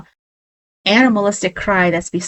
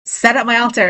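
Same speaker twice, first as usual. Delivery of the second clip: mild mock yell, pitched higher; retold yell; 4 semitones higher, faster than usual. Telling husband a second time because he wasn't listening, retold mild yell. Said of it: "this time I'm yelling at him".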